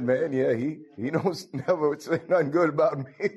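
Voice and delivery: lightly voiced Ahab chuckling through the complaint; Ahab, laughing. Preacher retelling Ahab's complaint to the church, laughing. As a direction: grumble it with a laugh breaking in. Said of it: "Ahab said".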